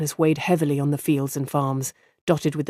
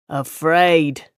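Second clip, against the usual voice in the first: a mild exclaimed echo of the word; exclaiming. Acted. Innkeeper echoing the farmer's word, mild exclaim. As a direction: toss the word back, lightly indignant. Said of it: "Haldwyn exclaimed".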